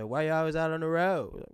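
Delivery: high-pitched imitation of Detroit speech; mock Detroit accent. Kids repeating a movie line, mock Detroit accent. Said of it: "that Detroit accent".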